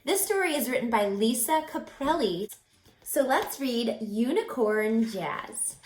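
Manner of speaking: put-on bright teacher voice for kids; reading to children. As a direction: talk straight to the children. Teacher introducing story to kids.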